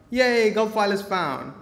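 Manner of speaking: high, loud little yay; a playful celebratory yay; mock cheer. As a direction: cheer like a delighted kid.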